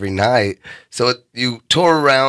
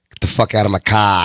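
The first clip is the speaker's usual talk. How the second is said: put-on Boston-accented driver, R dropped on "car"; 3 semitones lower than usual. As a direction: throw the passenger out in Boston-speak. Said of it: "I don't fucking talk like that".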